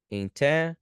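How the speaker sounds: "Intelligent" in three beats with long gaps; syllable by syllable. Shown as a demonstration. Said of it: "três sílabas".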